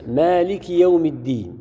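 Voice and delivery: slow recited مالك يوم الدين; measured tajweed reading; Quranic recitation. Shown as a demonstration. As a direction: recite the verse slowly, as in prayer. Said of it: "مثل".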